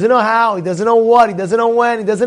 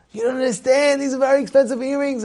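mock panicky girl, higher voice; flipping out; 5 semitones higher, faster than usual. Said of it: "she's flipping out".

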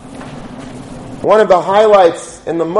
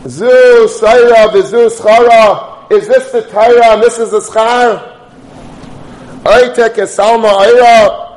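bitter outcry; 4 dB louder than usual. Acted. Angels protest the martyrs' deaths to God, bitterly crying out. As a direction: declaim it as an impassioned protest. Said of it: "cried out bitterly".

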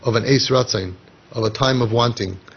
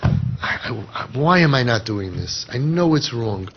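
remorseful husband. Retold or imitated. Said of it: "And he's saying".

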